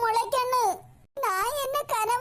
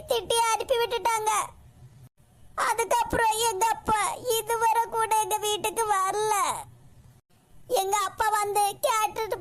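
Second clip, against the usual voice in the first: tearful, crying while telling. Acted. Niece tells her aunt about her mother-in-law's cruelty, tearful. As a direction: voice wet with tears, words breaking now and then. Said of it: "எதுக்கு இப்படி அழுதுட்டு இருக்க?".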